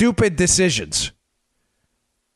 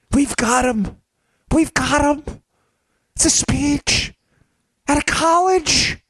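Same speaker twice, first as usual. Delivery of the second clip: high voice climbing to a drawn-out squeal; overexcited detective; 8 semitones higher, slower than usual. Acted. Mock detective cracking a trivial case, giddy. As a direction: build the fake triumph to a squeak. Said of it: "we're gonna introduce a new character".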